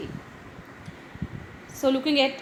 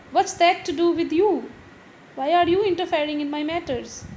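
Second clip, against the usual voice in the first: a touch of annoyed snapping; mildly irritated retort; 4 semitones higher, 4 dB louder than usual. Acted. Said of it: "Doris annoyed".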